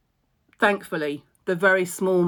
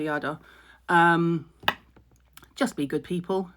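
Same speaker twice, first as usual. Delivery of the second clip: normal talking voice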